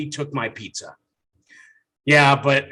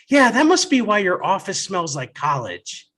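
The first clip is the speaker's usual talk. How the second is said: put-on sassy child; 5 semitones higher, 3 dB louder than usual. Daughter's punchline voice.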